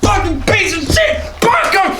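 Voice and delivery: shrieking fangirl, very high; excited anime fan. Pretend. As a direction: scream it like a crazed fangirl. Anime fan squealing over senpai.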